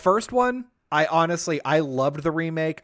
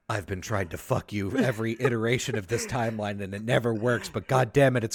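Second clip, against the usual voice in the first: lightly voiced lower, softer scorned lover; a hint of a brooding jilted suitor; mock Sephiroth; 5 semitones lower, 3 dB quieter than usual. Villain vowing to win the hero, lightly voiced low. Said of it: "Sephiroth is like".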